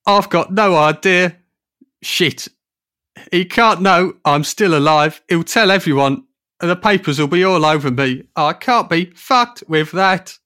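high, loud panicking; panicked singer. Acted. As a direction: panic about being found out.

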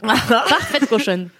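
slow laughing drawl; laughing slowly. Real, not acted. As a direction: stretch it out while laughing. Laughing tease.

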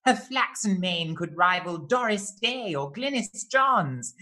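grand theatrical verse reading; poem recital. Acted. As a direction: declaim it like a camp showman. Reciting bespoke poem introduction.

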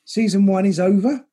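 smooth, measured announcer delivery; radio presenter voice. Acted. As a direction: read it like a radio host. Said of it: "you've never sounded quite like a radio presenter".

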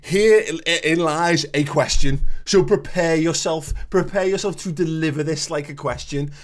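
slow, emphatic announcement; mock warning sign. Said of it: "a giant warning sign that says".

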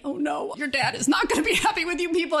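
a mock "oh no" through a laugh; laughing dismay. Mother's amused dismay, laughing.

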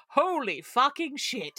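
stunned Deimos. Retold or imitated. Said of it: "And he's like".

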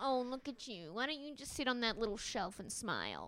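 soft, mock-sweet condescension. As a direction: coo patronisingly, as to someone small. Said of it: "sweet take is like".

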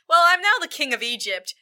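mildly hammed-up royal announcement; new king's proclamation. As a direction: announce your first rule to the crowd. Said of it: "turns to everyone and is like".

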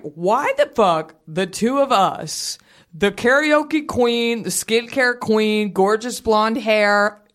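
slow, drawn-out incredulous rant; exasperated disbelief. Retold or imitated. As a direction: spell out the absurdity, slowly. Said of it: "I'm sitting here being like".

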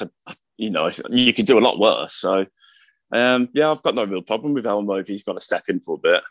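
talking through coughs; spluttering after a cough; coughing fit. Real, not acted. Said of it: "I was just coughing".

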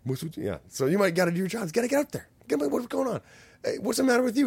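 high, loud mock French accent; squeaky hammed-up French pimp; French pimp rousing his workers, in a mock French accent. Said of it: "it's all in a French accent".

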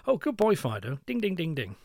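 high, excited dog praise; whoopee-doo praise. Shown as a demonstration. Trainer showing the wrong excited praise to a dog. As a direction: gush over the dog, all bouncy. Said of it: "there's a big difference between saying".

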